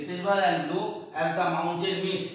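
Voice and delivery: repeated line read slowly again; slow poem reading. Shown as a demonstration. Teacher repeating the simile line for students, slow recitation. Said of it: "এটা কিন্তু simile".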